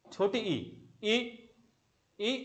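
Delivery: "ई" said short, repeated for the class; short "ई" drilled for students; short vowel demo. Shown as a demonstration. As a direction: sound out "ई" short, twice. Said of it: "समय कम लगा".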